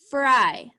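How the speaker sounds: fry with the long I stretched; dictated word. Shown as a demonstration. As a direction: read it out clearly for the children. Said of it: "like in the word fry".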